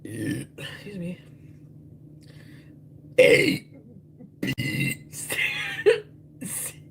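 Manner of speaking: burped letters; burping the words. Pretend. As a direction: burp the alphabet out. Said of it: "I can burp the alphabet".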